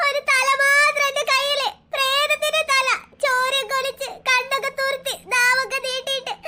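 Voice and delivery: slow, high, trembling with fright; frightened telling. Acted. Girl tells her father about the ghost's head, slow and scared. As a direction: relive the horror slowly.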